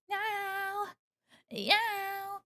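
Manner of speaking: high, drawn-out meow; playful kitty cry; cat meow. Pretend. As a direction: mewl high like a pretend cat. Answers as a cat.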